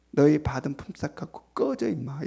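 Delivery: mock rude brush-off, kept low-key; blunt everyday dismissal. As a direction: dismiss them curtly in street language, dropping off at the end. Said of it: "실제로 하면 어떻게 되겠어요". (일상 말투로 퉁명스럽게)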